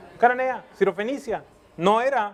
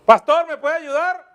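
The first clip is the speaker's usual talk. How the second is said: pleading call; 8 semitones higher, 6 dB louder than usual. Retold or imitated. Mock church member calling for help.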